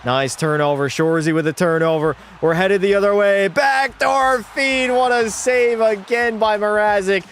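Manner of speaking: rising goal call, then recap; play-by-play call. Acted. Streamer as announcer calling a rebound goal. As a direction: build to the goal, then wrap it up.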